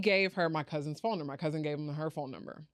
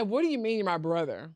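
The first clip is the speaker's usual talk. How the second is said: retold disbelief; 2 semitones higher, 4 dB louder than usual. Retold shock at claimed brother.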